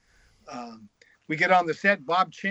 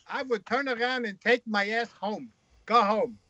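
put-on higher-pitched comic Jewish accent; 4 semitones higher than usual. Freud telling his friend to go home, in a Jewish accent. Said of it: "with a Jewish accent".

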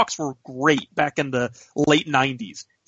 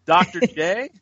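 retold disbelief, pitched up at the name; higher, questioning repeat; incredulous echo; 4 semitones higher, slower than usual. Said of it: "I'm like".

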